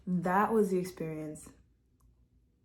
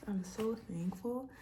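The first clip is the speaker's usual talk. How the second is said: choked up; 4 semitones higher, 6 dB quieter, slower than usual. Real, not acted. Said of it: "I'm low-key getting emotional".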